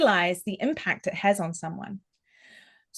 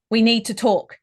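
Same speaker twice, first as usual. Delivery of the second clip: loud and blunt, like a parent scolding; a stern parent to a child in trouble; scolding children who are in trouble; 6 dB louder than usual. Shown as a demonstration. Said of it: "something I'd probably say to my children when they're in trouble".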